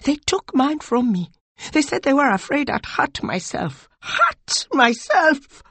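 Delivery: high, bitter outrage; high snarl rising to outraged cry; snarling anger. A narrator's reading. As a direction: spit it out, building in indignation. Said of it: "her face a mask of snarling anger".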